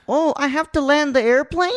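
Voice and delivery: high, loud surprised question; imitating a clueless coach; mock naive question. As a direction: play it dumb and surprised. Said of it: "He goes".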